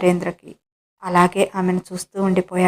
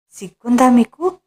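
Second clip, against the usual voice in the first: sharp, raised-pitch scolding; angry; 4 semitones higher, 3 dB louder than usual. Acted. Wife scolding her husband for kissing her: angry, a bit louder. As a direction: scold him, shocked and cross. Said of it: "అంది కోపంగా".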